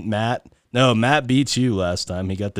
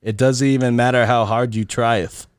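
hammed-up fake olde English, adding eth to the words; reading lyrics in a silly faux British voice; mock British accent. Host reads a band's lyrics to guests in mock British accent. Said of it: "in my, uh, British voice".

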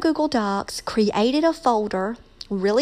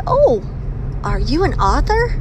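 high bright eager question, leaping up on oh; excited student; 3 semitones higher than usual. Retold or imitated. Student asking the teacher, thrilled, excited question. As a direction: retell the student's thrilled discovery.

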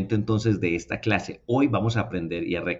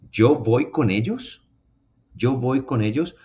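slow, rising yo voy con ellos; wrong version quoted; 4 dB louder than usual. Retold or imitated. Teacher mimicking learners' wrong question, slow rise. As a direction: imitate the common mistake. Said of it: "lo cual está absolutamente equivocado".

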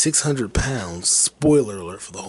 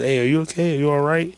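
high, raised imitated check-in; louder, higher retold courier voice; calling out; 7 semitones higher, 6 dB louder, faster than usual. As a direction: call out to check on someone unseen. Courier calling to unseen customer.

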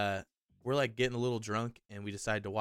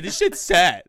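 much louder, higher mock wail of a friend; crying friend, loud; 9 semitones higher, 17 dB louder, slower than usual. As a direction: ham up a friend blurting out his sadness. He's like.

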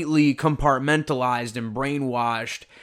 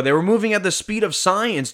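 frat bro; 6 semitones higher than usual. Retold or imitated. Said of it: "relax bro".

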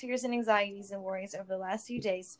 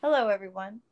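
awkward greeting; 6 dB louder than usual. Acted. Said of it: "He smiled awkwardly".

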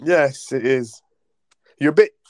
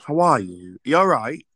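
British accent; 2 semitones lower than usual. Real, not acted. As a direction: greet them in a British accent. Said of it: "you really talk like that".

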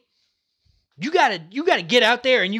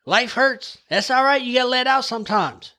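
reassuring dad; 4 semitones higher than usual. Retold or imitated. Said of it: "I told him, I said".

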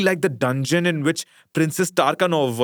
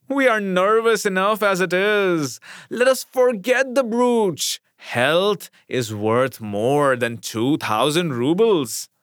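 higher, slow, soothing doctor's voice; honeyed doctor; 5 semitones higher, slower than usual. Acted. Household doctor calming the lady, lightly honeyed. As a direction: coax her gently, sweet as honey. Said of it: "in a honeyed voice".

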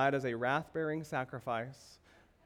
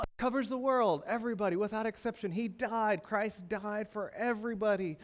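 imitating a starry-eyed believer, pitched higher; mock gushing; 5 semitones higher than usual. Preacher mimicking how believers talk about God's love, lightly gushing and higher. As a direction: gush lightly, mimicking the popular view. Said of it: "We, we talk like this".

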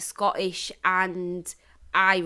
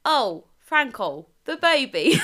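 slow, lilting mock Welsh, rising at the end; Welsh accent; 4 semitones higher, slower than usual. Shown as a demonstration. Asked to demo Welsh, cooing at Franco, Welsh accent. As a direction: put on sing-song Welsh. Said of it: "I would be Welsh".

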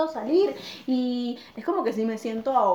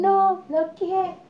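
singsong mock; 8 semitones higher, 4 dB louder, much slower than usual. Mocking sugar-baby claim.

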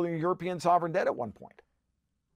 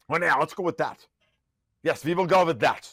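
a hint of a mock German accent, hammed-up; lightly put-on German accent; half-hearted mock German accent; bad German accent; 3 dB louder than usual. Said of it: "bad German accent".

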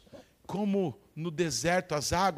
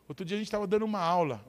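ordinary talk

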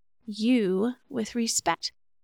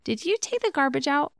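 higher, friendly "Did you take the garbage out?"; a simple friendly check; light neutral question; 5 semitones higher than usual. Shown as a demonstration. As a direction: ask it lightly, no blame. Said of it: "It sounds a lot different than".

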